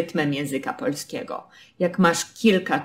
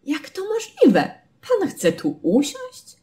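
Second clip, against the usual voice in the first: shocked disbelief. Shown as a demonstration. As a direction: ask as if it's absurd. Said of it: "ono wyraża zaskoczenie, szok".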